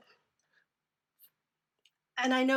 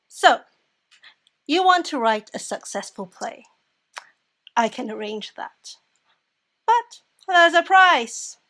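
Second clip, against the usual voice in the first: loud, deliberate pronouncements, slowing toward the threat; name the price like a devil sealing a bargain; ominous deal-making stranger; 8 dB louder, slower than usual. Acted. Voices the mysterious stranger offering a bargain.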